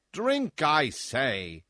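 high, loud commanding shout. Acted. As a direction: bellow the order. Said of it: "shouted the monster".

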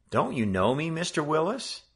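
put-on a boy pleading to be recognized; eager question. A narrator's reading. Joe greets the clerk who doesn't recognize him.

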